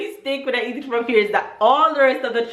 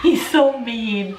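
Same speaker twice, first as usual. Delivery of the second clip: laughing; slower than usual. Real, not acted. Laughing at husband's teasing.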